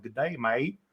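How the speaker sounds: Australian greeting in a lightly put-on Southern drawl. Annoying an Australian friend with his greeting, mock Southern drawl. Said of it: "do, like, a Southern drawl".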